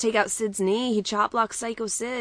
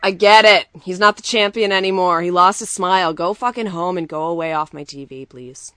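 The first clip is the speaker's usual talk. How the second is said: loud, fed-up venting; exasperated rant; 7 dB louder than usual. Real, not acted. Co-host sick of seeing the forfeit clips, exasperated rant. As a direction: burst out loudly, then keep venting.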